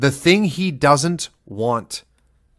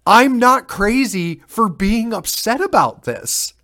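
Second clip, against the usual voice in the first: exasperated parent; 10 semitones higher, 3 dB louder than usual. Retold or imitated. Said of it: "these parents are like".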